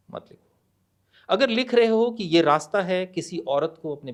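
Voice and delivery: measured poem reading with pauses; poem recitation. Acted. (कविता पाठ, ठहर-ठहर कर)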